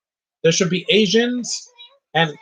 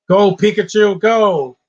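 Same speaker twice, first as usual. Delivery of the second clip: mock trainer call; 4 semitones higher, 7 dB louder, slower than usual. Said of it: "I know that's a game".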